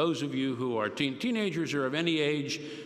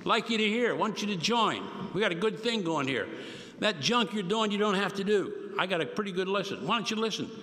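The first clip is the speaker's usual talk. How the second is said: Paul as a streetwise buddy, a notch higher; street Greek voice; 5 semitones higher than usual. Retold or imitated. Paul inviting a friend, lightly voiced street talk. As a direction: pitch it like a guy on the corner inviting a friend in. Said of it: "remember this was street Greek".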